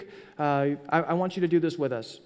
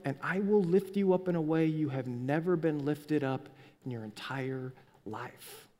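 tender fatherly promise; 3 dB quieter than usual. Pretend. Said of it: "He's gonna look at you and go".

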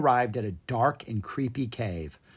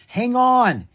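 calling out; 10 semitones higher, 7 dB louder than usual. Acted. Owen calls to sister.

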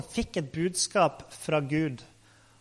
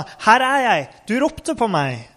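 higher, louder eager answer; ivrig tilrop; 4 semitones higher, 4 dB louder than usual. Acted. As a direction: call it out readily, pitched up. Samuel løper inn til Eli. (ivrig, lyst tilrop)

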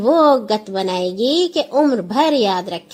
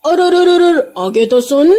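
high, loud stammering to cut in; urgent interruption; 8 semitones higher, 5 dB louder than usual. A narrator's reading. Raja cuts Nora off, urgent interruption. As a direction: break in before she runs off.

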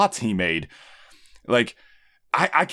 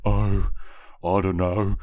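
Mister Frog impression; 5 semitones lower than usual. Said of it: "He's like".

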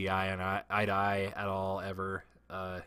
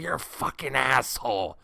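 louder, higher yelled insult; mock yell; 5 semitones higher, 6 dB louder than usual. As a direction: Doug shouting it again down the hallway. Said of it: "He's like".

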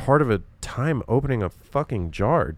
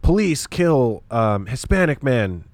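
headline read; 3 semitones higher, slower than usual. Retold or imitated. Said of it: "the title of the article just made it".

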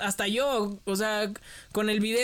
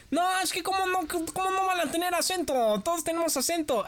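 higher, insistent mock arguing commenter; comentarista discutiendo; 8 semitones higher than usual. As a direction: play a commenter setting the record straight. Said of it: "Y otros". (comentarista que insiste, más agudo)

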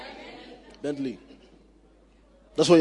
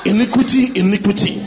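laughing; 4 dB louder than usual. Real, not acted. Mocking repeat of the word.

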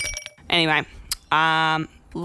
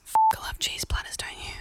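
conspiratorial whisper; whispered aside; 4 dB quieter than usual. Real, not acted. Whispering an aside to her listeners about cheese. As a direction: lean in and whisper it.

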